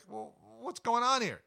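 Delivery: put-on a locked-out kid squawking in disbelief; indignant shock. Juvenile beaver finds the lodge doors locked, high indignant squawk. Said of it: "you'd be like".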